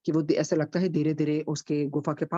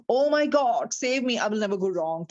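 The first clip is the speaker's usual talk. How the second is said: terrified cry; 4 semitones higher, much slower than usual. Acted. Robber in the dark cave cries out to God in terror. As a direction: cry out for rescue in panic. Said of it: "तो वही अंदर से चीखें निकलती".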